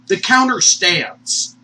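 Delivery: slow, loud THE COUNTER STANDS; drawn-out, forceful announcement; emphatic declaration. Real, not acted. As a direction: declare it slowly and firmly. Emphatic declaration, then hushed repeat.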